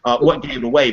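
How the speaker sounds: sarcastic, stress on "what". Retold or imitated. Teacher repeating the mocking question, sarcastic. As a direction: punch "what" with a dry sneer. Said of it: "And I'm like".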